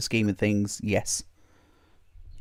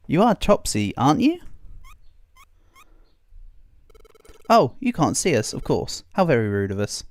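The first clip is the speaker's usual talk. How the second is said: earnest Dogtrio. Acted. Reads Dogtrio's pleading dialogue aloud.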